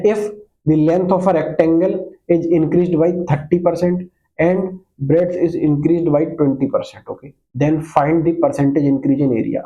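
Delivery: slow, measured reading of the question; slow classroom dictation. Shown as a demonstration. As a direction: read it out word by word for the class. Reads the question out slowly.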